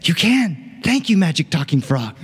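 princess thrilled the frog can help; excited princess. Acted. Eager young princess voice. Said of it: "She said".

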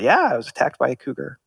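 deadpan, quick, no emotion; flat delivery. Retold or imitated. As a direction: say it dead flat, brisk. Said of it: "said it just flat".

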